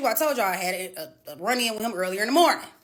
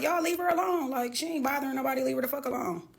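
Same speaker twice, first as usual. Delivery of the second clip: higher, softer imitation of a comedian; raised-pitch retold protest; Mike Epps; 4 semitones higher, 3 dB quieter than usual. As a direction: lightly mimic someone waving others off. Imitates Mike Epps defending her.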